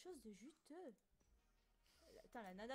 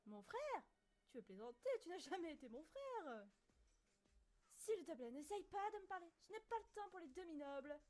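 put-on haughty, louder, raised noble boy; snob voice; 4 semitones higher, 4 dB louder than usual. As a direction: look down your nose at him. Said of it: "la voix de snob".

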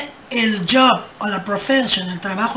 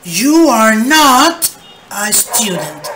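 slow and louder, "not" held out; loud slow model; 4 dB louder, much slower than usual. Shown as a demonstration. Teacher modelling the negative for the class, loud and slow. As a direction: project the negative slowly. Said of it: "Agregamos not".

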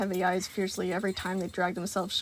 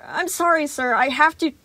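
high, slightly loud apology; a scared boy doing it anyway; anxious kid; 7 semitones higher, 7 dB louder than usual. A narrator's reading. Gregory apologizing to Sun, high and anxious.

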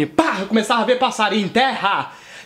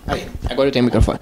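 pretend microphone; 10 semitones lower than usual. Mock-fumbling with a pretend microphone.

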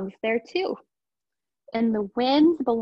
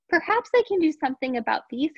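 thinking aloud; 4 semitones higher than usual. Acted. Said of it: "he thought".

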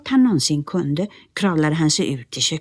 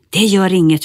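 reassuring; 4 semitones higher, 7 dB louder than usual. Acted. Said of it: "försäkrade Nisse".

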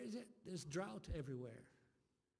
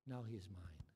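whisper; 8 semitones lower, 4 dB quieter than usual. Acted. Whispered line in sermon.

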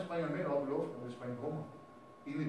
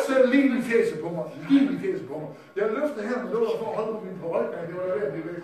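loud, high-pitched preacher's exclamation; comic outraged shout; 7 semitones higher, 15 dB louder than usual. Retold or imitated. Telling the crowd of the horn blast, comic outraged shout. Retells horn blown in face.

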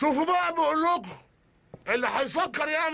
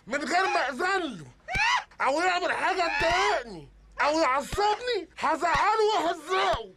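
slow threat; 3 semitones higher, slower than usual. Acted. Robber threatening hostages.

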